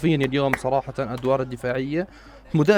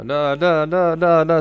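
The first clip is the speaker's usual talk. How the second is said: rising alarm; 7 dB louder, much slower than usual. Real, not acted. Danger peaks near the goal.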